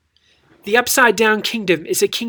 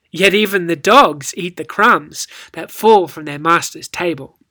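louder, confident reply; clever comeback; 2 semitones lower, 3 dB louder than usual. Shown as a demonstration. The woman outwitting Jesus, confident and sly. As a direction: make the point with a wink. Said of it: "with a little bit of inflection".

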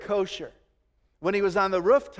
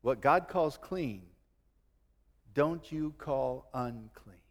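voice of God; 6 semitones lower, 5 dB quieter, slower than usual. Acted. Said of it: "And then the voice said".

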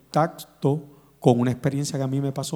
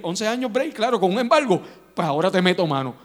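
put-on higher, taunting Babylon; mock threatening king; 5 semitones higher, 4 dB louder than usual. Babylon taunting Zedekiah after the revolt, mocking menace. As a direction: sneer it like a conqueror.

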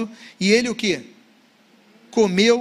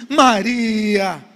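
long, falling, louder call of the name; tender calling of a name; 5 dB louder than usual. Acted. Jesus calls Mary at the tomb, tender and drawn-out. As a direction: draw the name out so she knows the voice. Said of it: "mas ele só falou assim".

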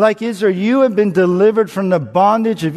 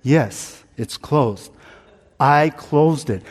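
calm and casual; slower than usual. Retold or imitated. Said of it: "really calmly and casually said".

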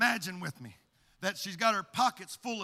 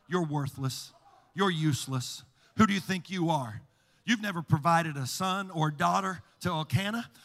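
adversary taunting; 2 semitones lower than usual. Acted. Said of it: "the adversary's behind her".

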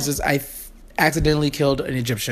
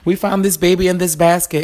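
urgent calling; 4 semitones higher than usual. Retold or imitated. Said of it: "and said".

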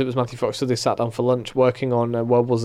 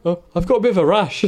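light mock Merchant voice, higher and laughing; Stephen Merchant impression; 6 semitones higher than usual. Friend imagines Stephen Merchant on the island, mock awkward whine. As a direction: pitch it up and play the awkward whinge. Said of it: "Can you imagine if Stephen Merchant turned up".

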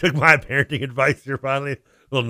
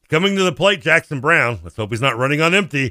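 play-by-play call, pitched up; broadcast partner; 4 semitones higher, 4 dB louder than usual. Retold or imitated. Announcer introducing the next batter, lightly hammed-up broadcast voice. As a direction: imitate a local game announcer. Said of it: "his cohorse goes".

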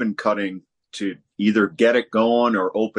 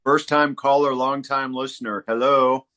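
phone held away; 5 semitones higher than usual. Real, not acted. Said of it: "put your microphone down and talk into the phone".

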